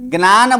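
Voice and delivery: ज्ञान as "gnaan", with n after g; wrong ज्ञान. Shown as a demonstration. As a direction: say ज्ञान with the faulty gn onset. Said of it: "बोलेंगे तो फिर उसको इस तरह से हो जाएगा". (ज्ञान को "ग्नान" बोलना)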